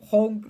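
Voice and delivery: separate, level honking; evenly repeated goose calls. Retold or imitated. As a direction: imitate a goose. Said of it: "The goose goes honk".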